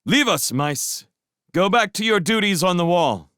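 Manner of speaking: loud, clipped order; curt command. Acted. Matthias sending the guard mice back, loud curt command. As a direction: dismiss them curtly. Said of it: "rapped out a curt command".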